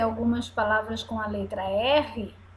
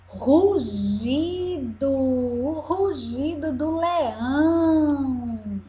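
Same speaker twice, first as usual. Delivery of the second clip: rugido drawn out slowly; slow teaching word; 3 semitones higher, slower than usual. Shown as a demonstration. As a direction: stretch rugido for the children. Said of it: "Ru de".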